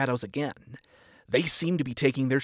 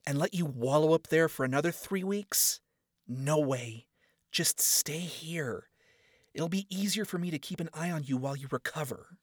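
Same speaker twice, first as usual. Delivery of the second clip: a hint of a stubborn young woman, ending in a whisper; firm Charlie; 4 semitones higher than usual. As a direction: refuse him, then coax. Charlie refuses.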